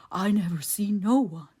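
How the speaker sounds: stubborn simple man denying everything; frightened simpleton Ben. A narrator's reading. Ben's simpleton voice.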